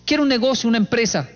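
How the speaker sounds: high eager wish; childlike request. Retold or imitated. Praying to God for a business, high eager voice. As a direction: ask like a hopeful child.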